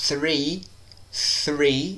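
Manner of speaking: "three" American style, TH clearly sounded. Shown as a demonstration. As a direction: say "three" with the tongue between the teeth. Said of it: "No americano".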